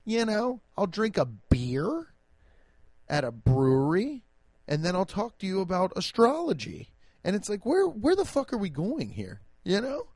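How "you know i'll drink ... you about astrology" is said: a lightly voiced dating-app woman, higher; hammed-up bubbly profile voice; mocking dating profile. Mocking women's dating profiles, light bubbly parody. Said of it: "Everybody's online persona is being like".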